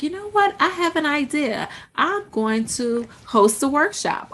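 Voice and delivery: high eager start, gradually settling; mock burst of inspiration; acted excitement. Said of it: "you get really excited about it".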